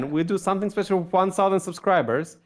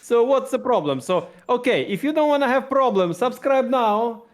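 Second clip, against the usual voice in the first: higher-pitched mock Russian accent; muddled Russian accent, could pass for Italian; 5 semitones higher than usual. Shown as a demonstration. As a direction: threaten jokingly in a Russian accent. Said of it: "if I put my Russian accent".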